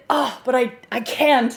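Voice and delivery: hammed-up romantic torment; mock anguished lover. Movie lover turning away from the girl, mock anguished. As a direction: parody a movie lover tearing himself away. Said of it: "turns away and does that hand fling out thing".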